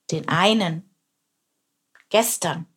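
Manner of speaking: mildly roared echo; roaring. A narrator's reading. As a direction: growl the words back as a lion. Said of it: "brüllte er".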